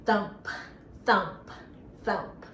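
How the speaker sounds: thump it like a rabbit. Shown as a demonstration. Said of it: "we'll make that rabbit sound".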